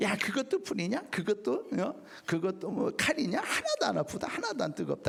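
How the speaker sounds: mocking evil spirit voice, high and sneering.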